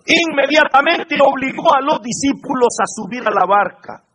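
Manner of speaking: high, projected opening of a Bible story; scripture reading. A narrator's reading. Preacher reading Saint Matthew to the congregation, proclaimed reading. Reads the Gospel aloud.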